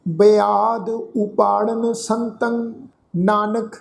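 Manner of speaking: slow, drawn-out chanting of the verse; slow scripture recitation. Shown as a demonstration. Teacher recites the verse for the congregation, slow chant. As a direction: intone each word slowly and reverently.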